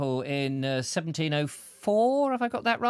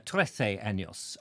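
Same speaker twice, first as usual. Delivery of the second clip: schoolboy Spanish; 6 semitones lower, 3 dB quieter, slower than usual. Shown as a demonstration. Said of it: "the Spanish accent".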